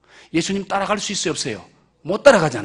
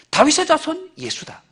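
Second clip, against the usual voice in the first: high rising; 4 semitones higher, 3 dB quieter than usual. Shown as a demonstration.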